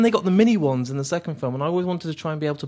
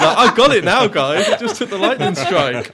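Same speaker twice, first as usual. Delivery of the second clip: mock robot voice; 5 semitones higher, 9 dB louder than usual. Voicing robot coming back.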